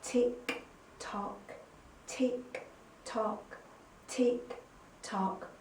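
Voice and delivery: soft even tick tock; quiet clockwork tick tock; clock ticking. Shown as a demonstration. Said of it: "make the sound of the clock".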